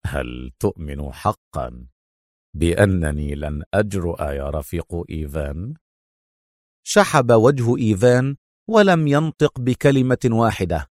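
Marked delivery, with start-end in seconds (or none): 0.1-5.7 mocking smile. A narrator's reading. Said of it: "بابتسامة ساخرة".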